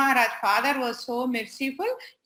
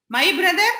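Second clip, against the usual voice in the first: louder, higher incredulous question; mock surprise; 4 semitones higher, 6 dB louder than usual. Child answers mother about his brother, mock surprise. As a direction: throw it back in loud disbelief. Retold indignant reaction to accusation.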